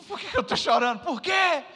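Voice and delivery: high, loud rising cry of why; emotional outburst. Retold or imitated. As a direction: cry out overwhelmed. (desabafo emocionado, alto e agudo)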